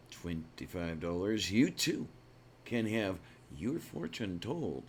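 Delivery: infomercial announcer. Acted. Infomercial pitch for fortunes.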